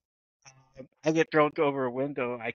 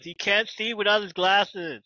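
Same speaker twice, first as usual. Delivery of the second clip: mock crying; 6 semitones higher than usual. Mock crying over glasses.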